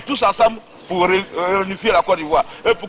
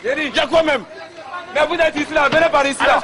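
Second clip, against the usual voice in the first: agitated shouting; 4 semitones higher than usual. Real, not acted. Commander shouting amid gunfire.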